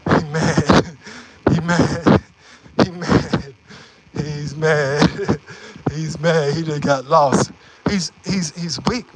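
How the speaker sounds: chuckling through the words; laughing at someone else's annoyance; amused gloating. Real, not acted. Gloating over a thwarted officer.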